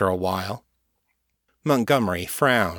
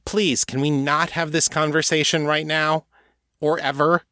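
moaning; 7 semitones higher than usual. Acted. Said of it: "Kate moaned".

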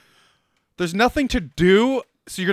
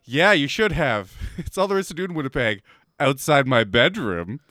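mocking imitation; 6 semitones lower than usual. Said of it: "No girl's gonna be turned on by".

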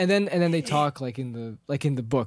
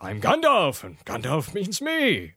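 grand Gandalf; much slower than usual. Retold or imitated. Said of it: "he's like".

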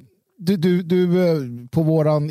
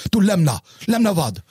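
curt, irritated, pitched higher; sour retort; 5 semitones higher than usual. Retold or imitated. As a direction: snap back like an annoyed man. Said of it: "han så här sur".

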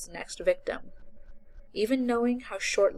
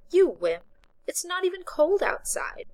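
put-on teasing young woman; 11 semitones higher, 5 dB louder than usual. A narrator's reading. Voices Becca.

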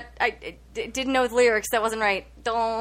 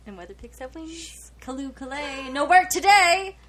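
poem recitation. Shown as a demonstration. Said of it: "Anybody else? / Keep going".

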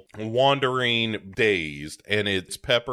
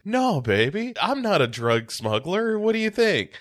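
put-on higher, patronizing "no baby" voice; mock boyfriend; 9 semitones higher than usual. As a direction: talk down to her sweetly. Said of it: "And Kemper is like".

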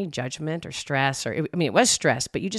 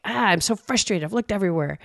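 mock frustrated; 3 semitones higher than usual. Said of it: "I'm just getting really animated".

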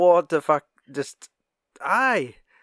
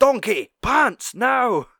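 higher, louder barked Scottish order; foul-mouthed Shrek; 8 semitones higher, 4 dB louder, much slower than usual. Retold or imitated. Mimicking a foul-mouthed Scottish Shrek to a friend, mock shout. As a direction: bark it like an angry Shrek. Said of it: "the foul mouth Shrek".

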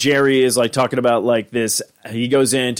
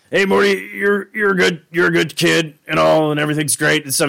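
higher, halting put-on cartoon voice; Rick; 5 semitones higher than usual. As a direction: stumble through praise in a raised character voice. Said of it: "Rick busts in to, uh, like, confront Morty".

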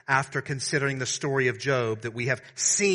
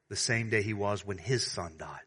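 calm steady reply; 3 semitones lower, 4 dB quieter than usual. Retold or imitated. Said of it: "replied in a calm and steady voice".

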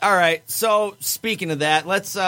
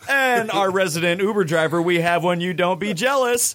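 lame announcer voice. Acted. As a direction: introduce each name like a corny emcee. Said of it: "the greatest lame announcer voice ever".

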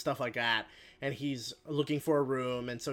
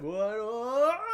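high questions climbing higher and louder; mock alarm; 9 semitones higher, 5 dB louder than usual. Captive woken as Mister Tusk, mock alarmed. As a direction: imitate rising panic on each word. Victim waking, retold in alarm.

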